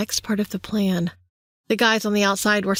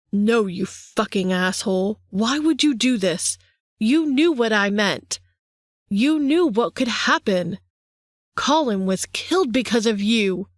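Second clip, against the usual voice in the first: raised, pained accusing voice; anguished outcry. Acted. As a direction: hurl the blame at him, hurt. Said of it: "I cried".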